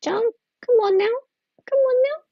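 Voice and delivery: high, sultry come-on voice; seductive voice. Pretend. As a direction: purr it out, teasing and flirty. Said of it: "Her seductive voice".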